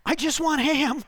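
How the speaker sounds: high, pleading mock whine; exasperated customer. Man at the deli counter pleading, high mock whine. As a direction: squeak it like a flustered shopper. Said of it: "He says".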